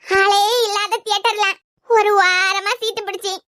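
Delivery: drawn-out theatrical dirge; mock wailing lament. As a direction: draw out the widow's keening, hammed up. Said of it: "நாம நினைச்சு ஒப்பாரி வச்சிட்டு இருக்கேன்". (இழுத்து இழுத்துப் போலி ஒப்பாரி)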